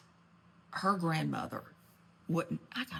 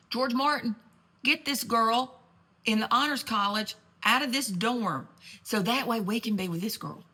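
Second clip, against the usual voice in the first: higher, louder plea to fix it; urgent plea; 3 semitones higher, 4 dB louder than usual. Retold or imitated. Family pleading with George Martin to move the girl, raised voice. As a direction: call on him to pull strings.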